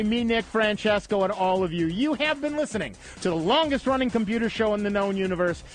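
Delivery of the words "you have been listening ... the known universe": radio sign-off. Acted. Show sign-off announcer.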